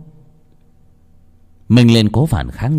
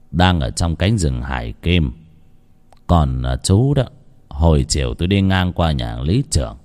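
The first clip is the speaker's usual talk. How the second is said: somewhat lower, calm, kind; lightly voiced older man; 4 semitones lower than usual. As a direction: gently offer the porridge. Healer speaks kindly. (giọng ông thầy hiền, hơi trầm)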